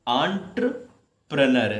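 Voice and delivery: एंटरप्रेन्योर said slowly, aan-tra-pre-nyor; slow pronunciation demo. Shown as a demonstration. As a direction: draw out एंटरप्रेन्योर syllable by syllable. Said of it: "पढ़ेंगे किस". (धीरे-धीरे एंटरप्रेन्योर का उच्चारण)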